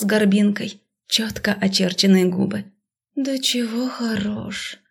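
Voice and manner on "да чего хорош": soft, slow admiring murmur; dreamy sigh. A narrator's reading. Heroine admiring the magister, soft and slow. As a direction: melt as you say it.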